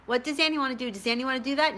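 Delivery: high, excited inner voice. Retold or imitated. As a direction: catch yourself, pitch jumping up. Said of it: "I would think to myself".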